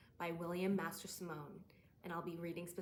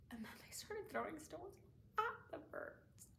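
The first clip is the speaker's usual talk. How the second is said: dawning horror; 8 semitones higher than usual. Acted. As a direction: pitch climbs high on "at the birds". Monologue, horror as stones target birds.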